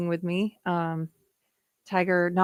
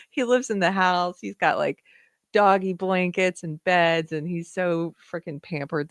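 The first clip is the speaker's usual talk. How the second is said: normal talking voice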